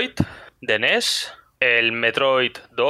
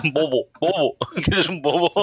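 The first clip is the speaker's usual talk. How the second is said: laughing teasing; 5 semitones higher than usual. Retold or imitated.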